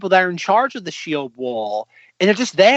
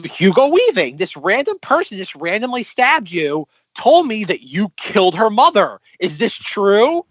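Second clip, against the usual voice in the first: quoted character; 5 semitones higher than usual. Retold or imitated. Voicing confused young man in scene.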